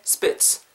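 "spits" as one short, forceful burst; short stressed "spits". Shown as a demonstration. Teacher drilling the key word for learners, "spits" short and stressed. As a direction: punch "spits" short with a sharp final ts. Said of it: "짧고 굵게".

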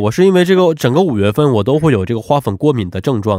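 blocked nose from hay fever; stuffy nose. Real, not acted. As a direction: speak through a congested, stuffed-up nose. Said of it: "声音一直特别的鼻音很重".

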